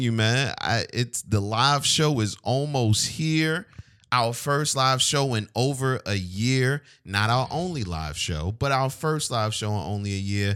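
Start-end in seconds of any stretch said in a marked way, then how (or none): 1.2-10.5 measured announcer-style hype. Real, not acted. Host telling co-host about the live show, announcer style. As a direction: promote it like an event announcer. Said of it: "you sound like an announcer".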